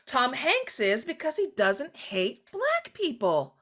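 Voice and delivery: mock admiration. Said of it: "we're like".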